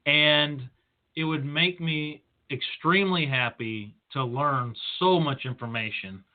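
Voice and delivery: feigned delight with measured, deliberate pacing; sarcastic. Retold or imitated. Speaker telling a colleague he would love the reading, sarcastic. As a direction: say it as if enjoying it, with understated sarcasm. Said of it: "that I'm being sarcastic".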